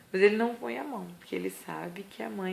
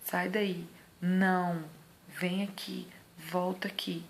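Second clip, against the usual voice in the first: firm no; much slower than usual. Shown as a demonstration. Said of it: "vai só falar".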